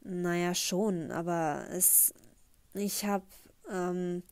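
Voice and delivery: stammering. Acted. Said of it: "ohne zu stammeln fort".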